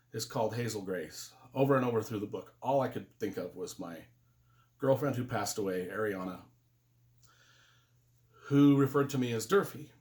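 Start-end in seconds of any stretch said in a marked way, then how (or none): 0.1-6.4 low, subdued remembrance; sinking into quiet sorrow; real grief. Real, not acted. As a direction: speak softly of someone you lost. Recalls his late girlfriend.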